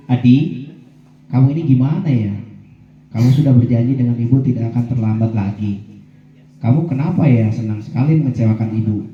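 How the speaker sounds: gentle, lightly pleading guilt-trip voice of a disappointed teacher; mild pleading sadness. Shown as a demonstration. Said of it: "nada suaranya memelas, halus, sedih". (nada memelas yang halus dan sedikit sedih)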